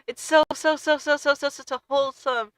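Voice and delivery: overflowing excitement; rising gush. Real, not acted. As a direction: pile up the so's in delight. Gushing about cat story.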